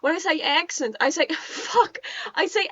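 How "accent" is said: odd take on "accent"; "accent" with the slipped vowel; odd pronunciation. Shown as a demonstration. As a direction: say "accent" in the weird, accidental way. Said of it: "I say it very weirdly".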